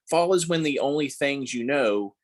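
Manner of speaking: hushed, breathless whisper on the line. Acted. Mother whispering the poem's turn to her newborn. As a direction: let it fall to a whisper, as if to a sleeping baby.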